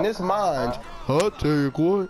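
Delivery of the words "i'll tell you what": lightly drawled Texan "I'll tell you what"; a hint of a Texas propane salesman; Hank Hill impression. Shown as a demonstration. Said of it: "Do your best Hank Hill impression".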